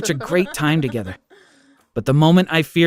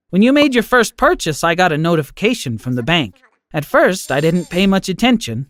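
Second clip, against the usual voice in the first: lightly voiced loving grandma comforting her grandson; kind grandma; 4 semitones higher than usual. Grandmother figure in story.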